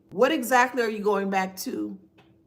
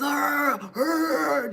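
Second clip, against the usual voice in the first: higher-pitched mock reptile roar; reptile growl; 4 semitones higher than usual. Mocking them beating their little chest, reptile growl. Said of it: "that's the reptile".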